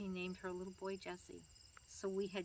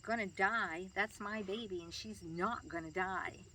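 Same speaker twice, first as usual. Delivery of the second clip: louder echoed question, slowing to a firm denial; firm, protective pushback; indignant retort; 4 dB louder, slower than usual. Retold or imitated. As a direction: retell a mother's affronted comeback. Retold indignant retort to a stranger.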